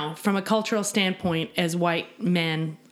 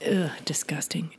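annoyed ugh. Pretend. Reacting to "I fucking love it.

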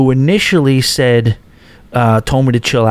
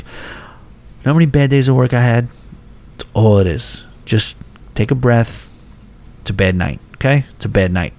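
calm reassurance. Retold or imitated. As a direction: talk her down gently. Calming down a distressed dealer.

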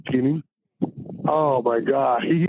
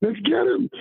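fired-up cheering; 12 semitones higher than usual. Retold or imitated. Cheering the team on.

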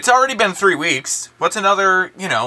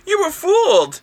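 detective voice; 7 semitones higher than usual. Acted. Detective reveals twist, laughing.

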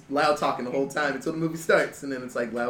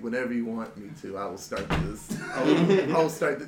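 quiet menacing threat; 8 semitones lower, 4 dB quieter than usual. Retold or imitated. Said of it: "he's like".

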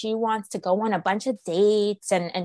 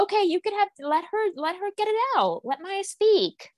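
much higher, pleading frustration, slowing on Let Maya speak; exasperated plea; 10 semitones higher than usual. Retold or imitated. To Paige about dismissing Maya, high exasperated plea. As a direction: beg her to let Maya talk.

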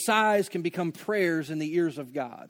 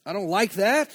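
frustrated protest; 4 semitones higher, 6 dB louder than usual. Pretend. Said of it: "It says".

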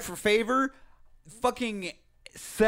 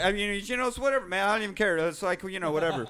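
fake nonchalance; 4 dB quieter, faster than usual. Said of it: "Nick is obviously not shook".

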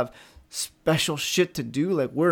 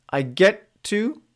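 upbeat get to; slower than usual. Shown as a demonstration. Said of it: "Observe what changes".

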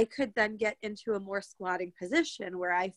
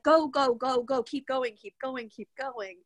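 race coach cheering; 4 semitones higher than usual. Retold or imitated. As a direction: push a runner to the finish, then ease off. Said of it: "coach me like I'm running a race".

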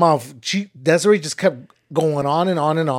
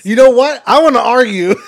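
loud, raised, playful challenge; pretend-combative announcement; mock confrontational; 7 semitones higher, 9 dB louder than usual. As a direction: pick a fake fight, pitched up and loud. Mock-picking a fight with partner.

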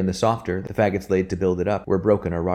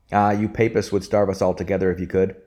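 a lightly raised mock roar. Minister teasing Robin about tithes, a mild mock roar. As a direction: bluster it, a hint of a bellow. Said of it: "roared the minister".

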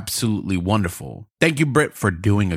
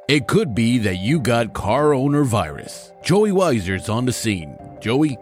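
news anchor read. Acted. Host reads parody news intro.

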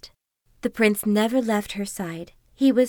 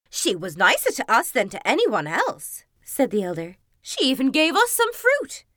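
a sister bragging she was noticed; gushing stepsister; 2 semitones higher than usual. Acted. Stepsister gushes about the princess.

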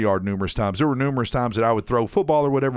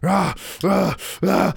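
barking dog imitation; 9 semitones higher, slower than usual.

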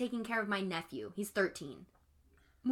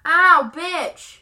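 high, loud ow of pain; pained yelp; 8 semitones higher, 15 dB louder than usual. Real, not acted. Sudden pain.

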